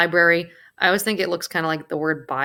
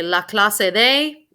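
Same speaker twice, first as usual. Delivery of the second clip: la clase de said slowly, rising on de; slow teacher demo of la clase de; slow model phrase; 3 semitones higher, 4 dB louder, slower than usual. Shown as a demonstration. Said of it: "you say".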